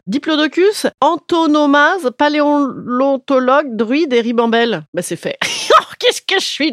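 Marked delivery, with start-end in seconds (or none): 0.1-4.8 slow careful tongue twister words. Shown as a demonstration. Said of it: "peux-tu dire".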